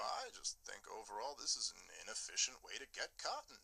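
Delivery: lightly imitated politician, understated about an outrage; mock practical politician. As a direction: make a mild mock-pragmatic case. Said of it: "who would talk about mass murder that way?".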